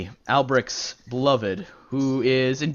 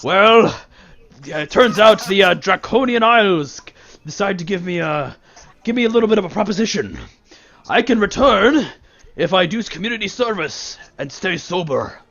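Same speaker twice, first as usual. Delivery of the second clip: a lightly voiced, louder man grumbling about sobriety; sober ex-drunk; 3 semitones higher, 4 dB louder than usual. Sober man telling Kriv about his bargain with the isles. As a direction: complain cheerfully about staying sober.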